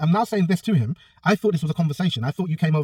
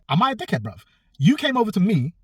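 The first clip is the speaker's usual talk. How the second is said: imitated argument, pitched much higher; mock a challenge in a raised pitch; retold indignant retort; 8 semitones higher than usual. Acts out opponent's angry retort.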